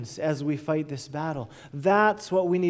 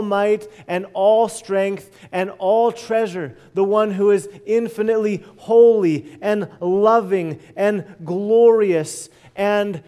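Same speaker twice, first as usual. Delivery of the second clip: building praise. Real, not acted. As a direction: build the list of God's names with mounting force. Preacher extols God's greatness.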